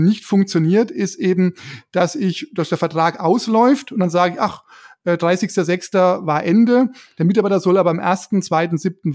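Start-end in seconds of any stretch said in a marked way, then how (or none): none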